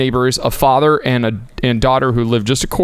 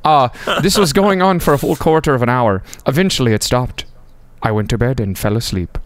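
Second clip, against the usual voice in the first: put-on amateur Irish accent, dropping at the end; lightly attempted Irish brogue. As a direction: tell the tale in a rough Irish accent. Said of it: "your Irish accent just tickles my funny bone".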